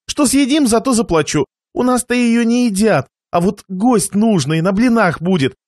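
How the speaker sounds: повыше, заискивающий проситель; уговаривай лавочника, чуть повысив голос; суетливый Кулаков. Acted. Хозяину магазина торгуется покупатель Кулаков. (суетливо упрашивающий Кулаков)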